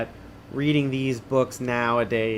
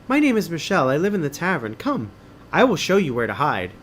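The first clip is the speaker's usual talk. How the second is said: higher, lightly voiced girl introducing herself; young girl Michelle; 3 semitones higher, 4 dB louder than usual. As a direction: lift the voice a little for the girl. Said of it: "she has a French accent".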